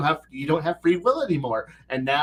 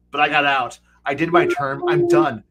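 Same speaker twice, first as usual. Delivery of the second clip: protesting player; 6 dB louder than usual. Retold or imitated. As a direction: insist you're out, voice cracking up on done. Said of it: "you're sitting here going".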